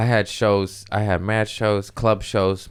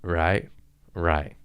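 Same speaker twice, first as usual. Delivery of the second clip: nod along like it just blew your mind; gushing agreement; 3 semitones higher, 4 dB louder, slower than usual. Retold or imitated. To the podcast audience, mock gushing agreement with the meme. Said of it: "you're like".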